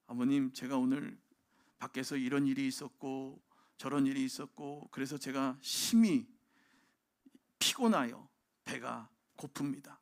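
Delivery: stiff, overly polite son asking for dinner; mock formal son. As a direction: ham up a stiffly formal child. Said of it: "이렇게 얘기를 해요?".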